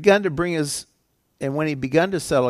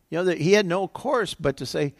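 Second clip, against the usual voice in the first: normal talking voice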